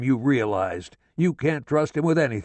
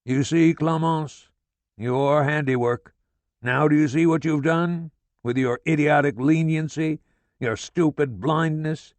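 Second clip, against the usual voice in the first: gloating furious rant, higher and louder; father gloating at his wife about their son; exultant tirade; 6 semitones higher, 4 dB louder than usual. A narrator's reading. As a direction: crow over being proved right. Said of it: "He was exultant".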